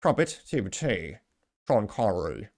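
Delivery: amateur British accent, slowly trying out words; attempted British accent. Shown as a demonstration. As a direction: have a go at sounding British. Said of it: "can I do a British accent?".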